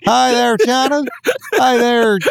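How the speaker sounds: high-pitched honky-tonk drawl; hammed-up honky-tonk greeting, stretched out; honky tonk accent. Greeting China as the aliens arrive, hammed-up honky tonk accent. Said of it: "say it in your honky tonk accent".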